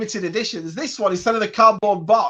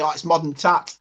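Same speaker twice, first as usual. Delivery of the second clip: put-on Yorkshire accent; 5 semitones lower than usual. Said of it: "it's a Yorkshire thing where Mark's from and he'll say".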